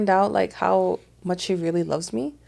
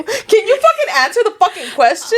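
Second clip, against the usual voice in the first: laughing; 11 semitones higher, 5 dB louder than usual. Real, not acted. Laughing exasperated yell.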